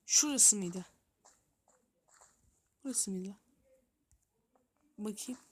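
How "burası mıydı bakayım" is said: fısıltı. Real, not acted. Searching tunnels, hushed to himself.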